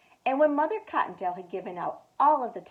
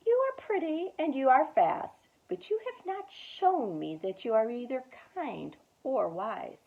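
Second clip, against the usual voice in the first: kindly grandfather rabbit; 4 semitones higher than usual. Acted. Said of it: "And he said to them".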